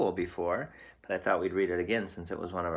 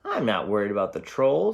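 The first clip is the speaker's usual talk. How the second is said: big goat; 6 dB louder than usual. Acted. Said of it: "said Big Billy Goat Gruff".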